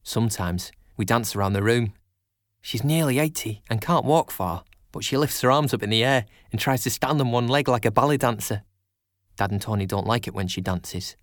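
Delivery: lightly voiced child storyteller; young narrator with regional accent. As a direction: tell it simply, as a child talking about family. Child narrator tells of family.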